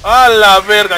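loud, sudden yelp of alarm; real shocked outburst; startled shout. Real, not acted. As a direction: blurt it out at full volume, caught off guard. Startled by enemy attack.

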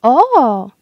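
a sharp little cry of surprise from the page; a court page's startled "O!"; page's exclamation. A narrator's reading. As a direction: blurt out "O!" as if startled. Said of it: "wykrzyknął paź dworski".

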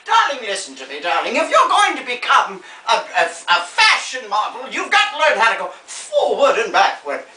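grande dame advising, then signing off; theatrical old star. Acted. Old star advising a would-be model, theatrically grand. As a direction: lecture grandly, then thank the audience.

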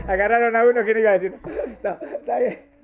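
laughing through the anecdote. Real, not acted. Laughs while telling anecdote. (riéndose al contarlo)

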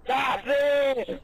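excited shout. Real, not acted. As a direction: blurt it out excited. Sudden realization shout. (exclamación emocionada)

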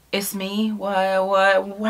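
soft, stunned stammer; acted quiet shock; stunned disbelief. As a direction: play dumbstruck in a small voice. Acts out own stunned reaction.

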